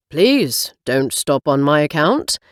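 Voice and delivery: light posh British accent, barely put on; a hint of a smug posh British gentleman. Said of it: "he says in a posh British accent".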